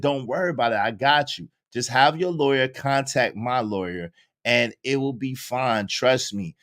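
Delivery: soothing her like nothing's wrong; smooth reassurance. Retold or imitated. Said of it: "He said".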